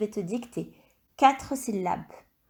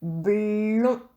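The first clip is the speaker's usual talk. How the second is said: dictation voice. Shown as a demonstration. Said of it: "Deuxième syllabe".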